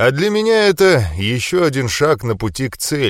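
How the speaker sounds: usual speaking voice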